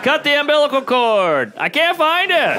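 high, strained panic; high, slow mock-panicked squeal. Panicked delivery-room joke voice.

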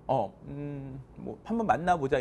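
umming and hawing, lightly acted; hesitant boy. Shy boy answering a girl who confessed, hesitant. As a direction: mumble it bashfully with little pauses. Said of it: "그 남자애가 쭈삣쭈삣 될 거 아닙니까".

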